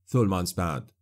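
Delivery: plain reading voice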